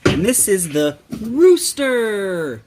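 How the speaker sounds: slow, spaced-out naming; drawn-out recap; slow teaching. Shown as a demonstration. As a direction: stretch it out for a small child. Teaching animal names slowly to toddler.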